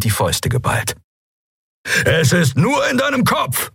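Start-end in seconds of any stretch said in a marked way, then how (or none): 2.0-3.7 very high-pitched urgent cry; calling out. A narrator's reading. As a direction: call encouragement to a suffering friend. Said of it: "rief er". (hoch und eindringlich gerufen)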